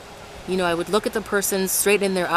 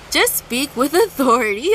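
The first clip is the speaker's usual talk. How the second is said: laughs mid-line, louder and higher; laughing; 6 semitones higher, 5 dB louder than usual. Real, not acted. Vlogger laughing at her own word stumble. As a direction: giggle through the fix. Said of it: "the Lord is making me laugh".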